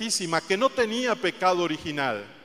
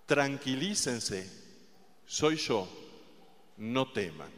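soft reassurance; 5 semitones lower, 8 dB quieter, slower than usual. Acted. Jesus calming the apostles.

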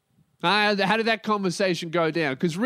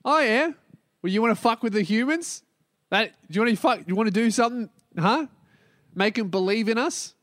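eager mock God; 2 semitones higher, faster than usual. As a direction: hype up the idea like a mate. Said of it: "Father's like".

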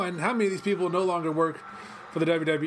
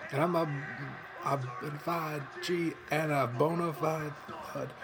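Enzo Amore impression; 5 dB quieter, slower than usual. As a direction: do Enzo's catchphrase promo, slowly. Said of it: "I'm about to do his whole shtick".

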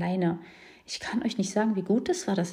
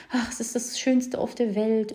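slow, higher, sugary quoting of the cliché; mock romantic cliché; 4 semitones higher than usual. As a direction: parody the gushing advice. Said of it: "zu viel Romantik immer erzählt wurde".

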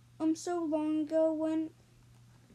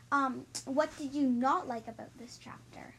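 whispering; 3 semitones lower than usual. Real, not acted. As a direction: whisper the question playfully. Whispered question to the child.

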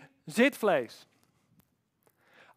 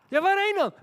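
a higher, louder baffled question; puzzled Abraham; 9 semitones higher, 5 dB louder than usual. Acted. Abraham asking God where he must go, lightly voiced bafflement.

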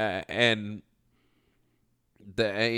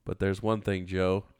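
slow, lower sing-song verse reading; mock poem recital; 4 semitones lower than usual. Mock valentine poem to an enemy, slow and low. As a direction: lay the poem on slowly and lower.

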